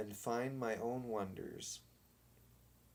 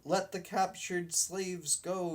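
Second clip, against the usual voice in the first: higher, louder captain's call; yelled; 7 semitones higher, 4 dB louder than usual. Acted. Boy captain orders the game, lightly yelled. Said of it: "yelled the captain".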